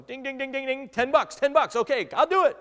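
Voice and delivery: loud high ding-ding delight; thrilled at a ten-buck fix; young husband thrilled at the cheap repair, very high and loud; excited. Retold or imitated. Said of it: "I'm so excited".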